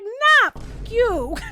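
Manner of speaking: loud, high, laughing mock yell; furious shout. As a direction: spit it at him, half laughing. Alan cursing David out.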